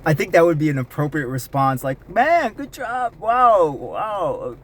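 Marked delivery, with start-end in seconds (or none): 2.1-4.6 high, put-on Australian accent cheering someone on; exaggerated Australian-accent congratulations with swooping pitch. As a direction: imitate an Australian mate giving praise, pitched way up. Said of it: "speak with an Australian accent".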